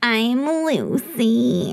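slow, lightly voiced daddy voice; a hint of a suave daddy. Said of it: "a little bit daddy voice".

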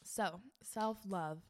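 just swallowed a sip of water; sipping water. Real, not acted. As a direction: speak right after a drink. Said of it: "Let me take a sip of water".

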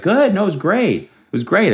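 high-pitched mock-casual reply; hammed-up everything-was-great tone; gym-goer reporting back. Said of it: "And they're like".

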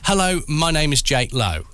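evenly measured introduction; careful, deliberate delivery. Shown as a demonstration. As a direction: spell out each word as a demo to copy. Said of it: "I want you to say it deliberately".

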